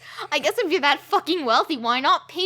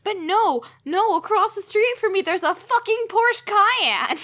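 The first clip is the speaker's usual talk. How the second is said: laughing anger; 5 semitones higher than usual. Real, not acted. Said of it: "I'm so angry I can't think of car names".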